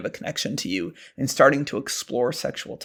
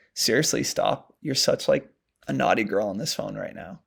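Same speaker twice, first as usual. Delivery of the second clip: slow and intentional; 3 semitones lower than usual. Shown as a demonstration. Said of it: "you slow down and you say it intentionally".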